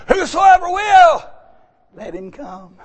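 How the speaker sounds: loud, slow preacher's cry; slow, loud preaching call; preaching shout. Real, not acted. Preacher calls out to the congregation in a loud, slow shout.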